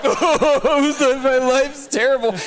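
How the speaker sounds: high, laughing mock wail; laughing self-mockery. Telling the driver his troubles, high mock wail through laughter. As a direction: laugh through a hammed-up lament. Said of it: "I was like".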